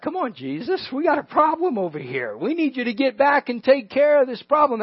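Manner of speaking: a mock plea, pitch up; urging him to hurry back, mildly acted; pleading with Jesus. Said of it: "That's what you would say".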